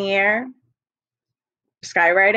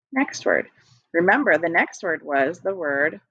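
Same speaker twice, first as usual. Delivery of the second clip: ordinary talk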